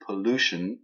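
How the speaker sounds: English pollution, po-LU-tion with a sh sound; stress on second syllable. Shown as a demonstration. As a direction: hit LU in pollution. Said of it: "c'est la deuxième syllabe qui est accentuée".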